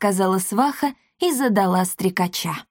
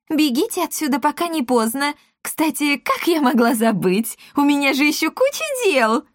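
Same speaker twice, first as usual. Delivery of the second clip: higher flustered excuses; flustered matchmaker; 8 semitones higher than usual. A narrator's reading. Matchmaker invents reasons to leave, flustered. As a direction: hurry through the excuse.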